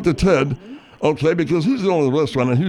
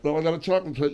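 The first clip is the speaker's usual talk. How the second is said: mouth full; 6 dB quieter, faster than usual. Acted. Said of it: "you gotta finish up eating".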